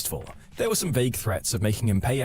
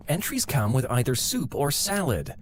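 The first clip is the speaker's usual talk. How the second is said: testy. Retold or imitated. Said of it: "she asserts a little testily".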